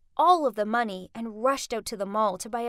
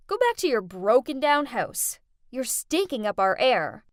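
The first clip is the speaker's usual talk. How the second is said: sneering; 4 dB louder than usual. Acted. Jasmine insulting them.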